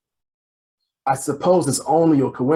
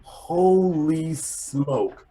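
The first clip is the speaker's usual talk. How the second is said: slow, drawn-out astonished exclamation; surprised; 4 semitones higher, much slower than usual. Acted. Detective finds the reporter on his train, slow astonished exclamation. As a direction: stretch it out in disbelief.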